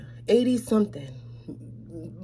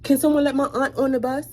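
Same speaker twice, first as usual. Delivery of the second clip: mild retold yell; 4 semitones higher, 5 dB louder than usual. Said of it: "then I yelled out".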